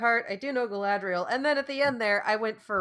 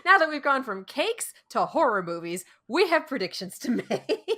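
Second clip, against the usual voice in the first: laughing; 5 semitones higher than usual. Real, not acted. Laughing through the line.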